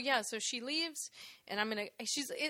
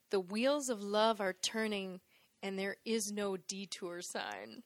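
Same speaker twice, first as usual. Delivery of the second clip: tag; 5 semitones lower than usual. Retold or imitated. Reciting the lyric with mock gravity.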